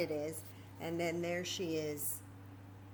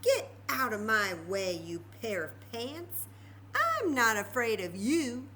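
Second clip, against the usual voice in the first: put-on bold old lady; 2 semitones higher, 5 dB louder than usual. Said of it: "said the little old lady".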